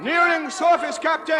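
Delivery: shouted report. Acted. Helmsman calling out the depth to the captain, shouted. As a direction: report called out over the noise.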